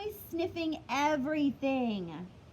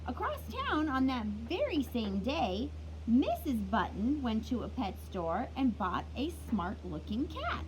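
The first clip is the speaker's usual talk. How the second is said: storybook reading. A narrator's reading. Teacher reading a picture book to kids, lively storytelling. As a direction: read it like story time for little ones.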